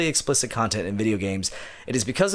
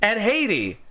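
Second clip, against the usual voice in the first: exaggerated indignant voice; 7 semitones higher than usual. Reading as Cuban-Canadian writer.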